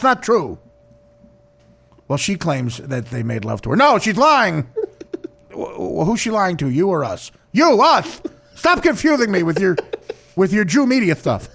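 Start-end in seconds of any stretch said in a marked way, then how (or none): 3.8-11.5 higher, indignant denial; dim husband voice. Retold or imitated. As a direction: protest like a flustered simpleton.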